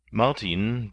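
plain reading voice

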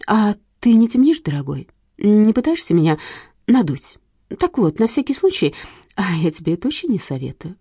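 lightly voiced sly widow, mocking; a hint of a purring widow; scheming widow. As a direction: needle him sweetly with contempt. Widow warns him suspiciously.

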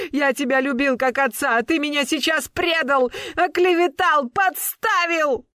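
high, wounded shouting; betrayed rage. A narrator's reading. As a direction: hurl it at the father who betrayed you. Betrayed son raging at father. (сын в ярости кричит на приёмного отца)

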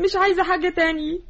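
crying reproach, pushing the words through sobs; tearful plea. Acted. Daughter crying at her family for mercy. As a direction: accuse them of having no mercy, in tears.

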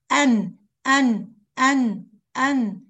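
slow, loud أن pressed on the tongue tip; strong tongue-tip أن. Shown as a demonstration. Teacher drilling the tongue tip: loud slow أن. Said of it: "قوي".

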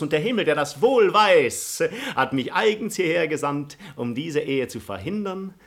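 loud, high theatrical protest; grand, outraged gallantry, ringing out; impassioned indignation. Acted. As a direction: protest her match with swelling fervour. Suitor protests at peasant marriage.

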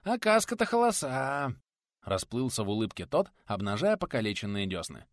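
toothless lisping craftsman. Acted. Nikodim arguing about drying bricks, high lisping exasperation.

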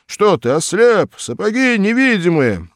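high, loud indignant yell; indignant shout. A narrator's reading. Hikin yells at the policeman about invisible boots, loud.

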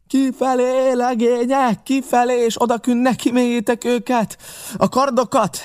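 very high, strained command yell; captain's shout. A narrator's reading. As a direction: shout urgent orders to your men over the battle. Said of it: "kiáltotta a kapitány". (kapitányi kiáltás, magas hangon)

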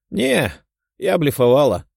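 high, bright-eyed smiling admission. A narrator's reading. The demon girl admits her bluff with a grin. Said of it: "улыбнулась краснокожая".

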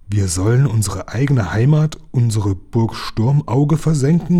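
pirates shout in disbelief; pirates crying out. Acted. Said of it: "riefen die Piraten". (entsetzter Ausruf der Piraten)

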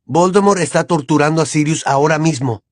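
Harry yelling at Hermione to hurry; a mild urgent yell; shout. Acted. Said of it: "gritó Harry".

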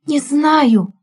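usual speaking voice

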